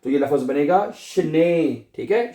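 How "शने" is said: शने ending on a held "ay"; शने as "shnay", last vowel lengthened; long final vowel. Shown as a demonstration. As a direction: stretch the ए at the end of शने. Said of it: "ए को थोड़ा सा लंबा करना है".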